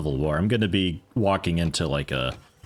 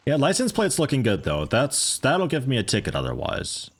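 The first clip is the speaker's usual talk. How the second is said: normal talking voice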